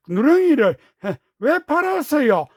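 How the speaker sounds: put-on upset boy. A narrator's reading. Boy upset at uncle selling calf.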